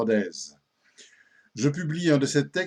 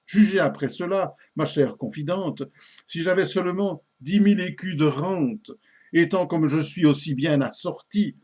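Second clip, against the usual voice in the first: measured, lively recital of comic verse; an old comic poem read aloud with theatrical relish; poem recitation. Acted. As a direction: recite it line by line with marked pauses.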